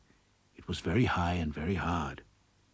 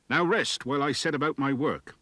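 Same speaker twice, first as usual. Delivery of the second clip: dwarf voice; 7 semitones higher, 4 dB louder than usual. Acted. Dwarf speaking.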